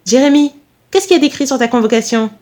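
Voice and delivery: lightly acted, pressing maternal query; pressing mother. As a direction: question your son in a hurry. Mother hurriedly questions her son.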